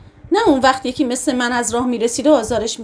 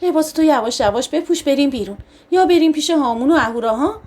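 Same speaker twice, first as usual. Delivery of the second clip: calm and kind. Acted. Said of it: "آروم و مهربون گفت".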